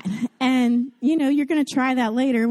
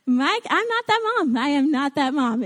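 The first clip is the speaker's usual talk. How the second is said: high, laughing confession; admitting it to the church with a laugh; playful confession; 4 semitones higher than usual. Real, not acted. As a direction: own up with a grin.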